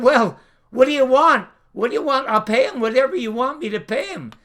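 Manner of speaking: imitating shocked pleading. Network boss offering the star anything, shocked. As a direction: play a boss caught off guard and scrambling. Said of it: "And then the guy gasped".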